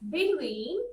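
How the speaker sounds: "between" leaning on TWEEN, rising at the end; stress on second syllable. Shown as a demonstration. Teacher gives another example word, "between" stressed on tween. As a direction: put the weight on TWEEN in "between". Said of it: "as usual second part".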